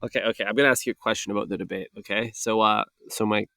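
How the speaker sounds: put-on halting, mumbling old politician voice; Sleepy Joe impression. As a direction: stumble and trail off like a tired old man. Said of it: "that was my Sleepy Joe impression".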